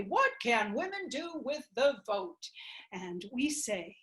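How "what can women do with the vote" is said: mock the men. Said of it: "the men say".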